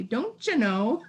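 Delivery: slow, rounded Minnesota "Don't you know"; Minnesota lilt, drawn out. Shown as a demonstration. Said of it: "You pronounce it too clo-, too nicely".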